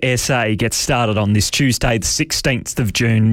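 hoarse, scratchy speaking voice; raspy voice. Real, not acted. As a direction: talk through a sore, raspy throat. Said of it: "I've got a rather raspy voice".

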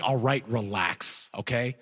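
soft slow placating tone; calming down. Retold or imitated. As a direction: ease the officer down gently. Calming the officer.

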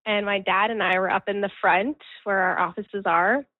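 ordinary talk

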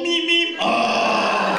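high, squeaky Muppet car horn; comic puppet beeps. Retold or imitated. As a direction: honk like a Muppet. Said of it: "There's a Muppet in my horn".

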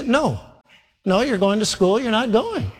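father refusing his pleading daughter, stern; stern refusal. Retold or imitated. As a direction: shut her down firmly.

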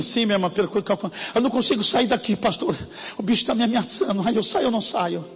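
scared sister asking for help; mock frightened plea. Frightened woman voiced.

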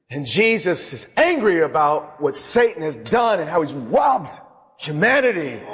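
preaching shout. Acted. Preaching about Jesus' anger.

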